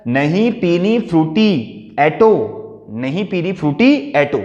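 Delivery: put-on slow, drawn-out sulky whine of a girl; sulky child's refusal. Shown as a demonstration. Teacher acting the sulking girl who refuses her Frooti. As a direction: drag out the refusal like a pouting kid. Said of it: "अपनी माँ का नाम लिया".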